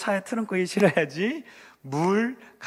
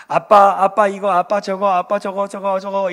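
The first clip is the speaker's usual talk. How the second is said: put-on child asking dad; 4 dB louder than usual. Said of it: "이렇게 얘기할지라도".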